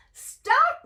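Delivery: high loud call of stop; shouting stop. Acted. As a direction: yell after the runaway. Baker calls after matzah man.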